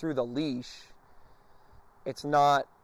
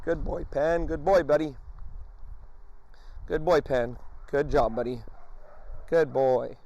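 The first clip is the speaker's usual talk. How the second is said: praise. Shown as a demonstration. Trainer praising the dog over and over. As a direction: cheer him on as he gets it right. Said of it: "I tell him, Good boy".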